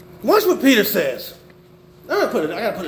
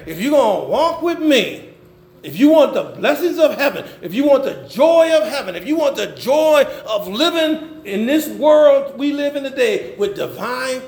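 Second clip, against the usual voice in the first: building, insistent pulpit cadence; impassioned preaching; 5 semitones higher than usual. Acted. Preacher laying out the terms of following Jesus, impassioned.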